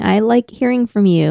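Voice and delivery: slow, deliberate veiled threat; mock threatening. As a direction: say it slowly, as if holding listeners at gunpoint. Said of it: "You were holding a gun to the microphone".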